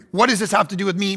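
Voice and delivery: quick, offhand brush-off; dismissive. Pretend. Lazy son brushing off his mother, quick and offhand. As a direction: toss it off like a lazy son with a toothpick. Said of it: "he's got the toothpick and he's hanging out".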